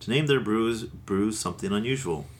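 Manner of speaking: ad-copy reading voice; label read aloud. Acted. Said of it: "On the bottle here, they say".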